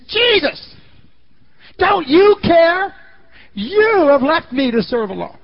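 high, loud, stretched accusation; furious demand. Retold or imitated. Martha storming out to confront Jesus, high loud furious demand. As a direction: confront him indignantly.

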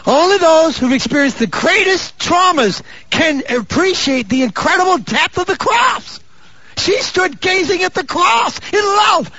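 high, slow, ringing proclamation; full-force preaching. Real, not acted. Preacher tells congregation of the cross, impassioned preaching. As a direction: stretch each phrase out in a high preacher's cry.

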